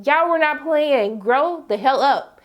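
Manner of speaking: slow, scolding each word; stern scolding. Retold or imitated. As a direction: scold them slowly like children. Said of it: "but I was like".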